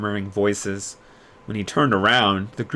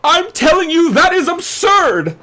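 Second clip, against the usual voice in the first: high, loud, outraged squawk; head mage loudly protesting that it is absurd; indignant protest; 10 dB louder than usual. Acted. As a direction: refuse to accept it. Crowley protesting.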